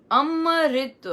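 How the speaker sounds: "अमृत" said with a long held m, am-mrit. Shown as a demonstration. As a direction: stretch the m in "अमृत". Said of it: "बहुत अलग-अलग तरह से इसका उच्चारण होता है".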